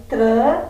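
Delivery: "tran" isolated and punched; stressed syllable alone. Shown as a demonstration. Teacher picking out the strong syllable, "tran" said emphatically. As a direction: say "tran" by itself, firmly. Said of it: "é a sílaba mais forte".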